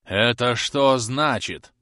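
медленно, с нажимом на «что»; повтори «Это что значит?», медленно выделяя «что»; гневный вопрос. A narrator's reading. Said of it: "повторил мистер Домби, выходя из себя". (медленно, с нажимом на «что», выходя из себя)

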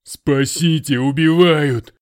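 loud, high hammed-up cry for help; wailing plea. A narrator's reading. The Russian on his knees wails for help, loud. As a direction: wail for rescue. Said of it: "взмолился о помощи".

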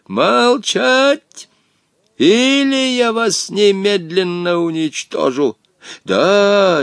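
high furious shouting genie; furious roar. A narrator's reading. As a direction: roar in trembling rage. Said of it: "дрожа от злобы, заорал". (в ярости орёт)

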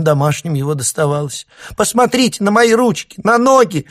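high, loud, near-hysterical shouting. A narrator's reading. Mother shouts to guests about her violent son, high and loud. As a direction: pour out the family's woes at full shout. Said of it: "Мамаша перешла на крик".

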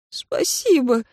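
a hint of a breaking, mumbled thanks. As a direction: mumble thanks, voice barely catching. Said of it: "пробормотал срывающимся голосом".

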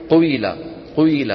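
قويلة starting on damma and ending in kasra; قويلة بضمة تنتهي بكسرة; tribal variant pronunciation. Shown as a demonstration. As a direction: glide from u into i in قويلة. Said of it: "يبدوا بضمة وينهوها بإيش".

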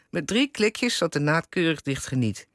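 lively read-aloud with lightly acted dialogue; column reading aloud. A narrator's reading. Interviewer reads the author's column aloud, lively storytelling. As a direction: read a wry domestic story to an audience.

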